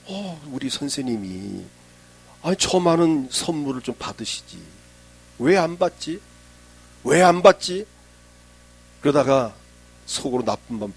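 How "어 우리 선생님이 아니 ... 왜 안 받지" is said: imitated muttering that climbs into puzzled questioning; puzzled servant. Elisha's servant wondering at the refused gift, puzzled and building. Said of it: "엘리사의 사환이 다 보고 있습니다".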